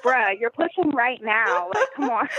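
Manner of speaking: slow, drawn-out incredulous retort, amused; stretched-out, playful disbelief jumping high at the end; mock exasperation. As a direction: imitate an exasperated husband. Husband's exasperated retort acted, ends laughing.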